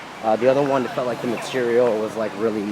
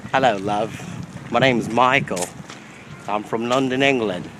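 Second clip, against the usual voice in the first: slow, hammed-up English accent on hello, love; questionable English accent. Second go at the questionable English accent for the vlog. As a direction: try the fake London accent once more, a touch slower. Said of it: "questionable English accent".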